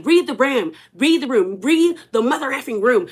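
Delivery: imitated snarl with "room" squashed toward "ram"; lightly mocking cartoon-brat impression; Cartman-like snarl. Britt telling Angela off, in a lightly mimicked Cartman voice. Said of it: "she sounds like Cartman".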